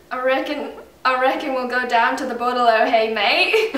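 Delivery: a lightly put-on Australian accent. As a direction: try the Aussie phrase in an Australian accent.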